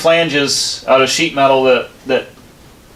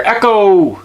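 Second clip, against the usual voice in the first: calling out for the echo; 6 semitones higher, slower than usual. Real, not acted. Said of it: "Listen to that echo in here".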